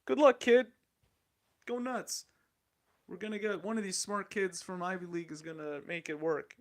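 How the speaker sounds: a hammed-up investor shrugging off a founder; mock dismissive investor. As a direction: toss it off like a careless investor writing a check. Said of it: "So they're like".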